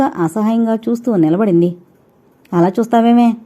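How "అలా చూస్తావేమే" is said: a touch of a sharp rebuke; mother snaps at her daughter; mild scolding. Acted. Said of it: "తల్లి గదమాయించింది".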